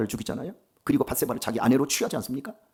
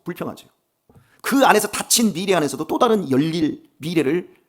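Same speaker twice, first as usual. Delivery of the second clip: normal talking voice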